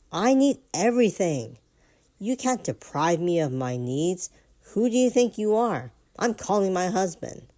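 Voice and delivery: loud, high shrill tantrum. Retold or imitated. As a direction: throw a hammed-up tantrum. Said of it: "Introduce tantrum".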